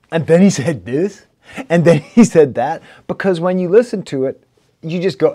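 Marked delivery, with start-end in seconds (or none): 0.1-2.8 louder, singsong mock rap patter; mock rambling rapper. Reviewer parodying the rapper's verses, mock rap patter. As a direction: parody the rapper's endless storytelling. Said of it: "it just devolves into this".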